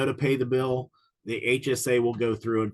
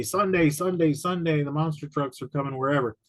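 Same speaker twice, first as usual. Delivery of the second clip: lightly voiced hype announcer, higher; monster truck ad; 4 semitones higher than usual. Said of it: "they would say".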